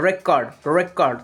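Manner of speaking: ରେକର୍ଡ slowly, with weight on the opening ରେ; stress on first syllable. Shown as a demonstration. Teacher showing primary stress, ରେକର୍ଡ slowly stressed on ରେ. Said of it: "ଆର୍ ଉପରେ ଆସୁଛି ନା".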